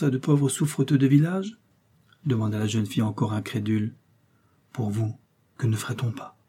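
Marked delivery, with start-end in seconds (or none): 4.7-6.4 softly, held back, a touch lower. A narrator's reading. Young man quietly pleading with the princess, low voice. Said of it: "dit-il à voix basse".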